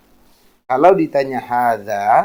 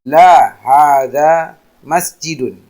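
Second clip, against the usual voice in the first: la hadza masjidun louder and slow; emphatic demo answer; 7 dB louder, slower than usual. Shown as a demonstration. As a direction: say the negative answer firmly for the class. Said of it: "kita menjawabnya".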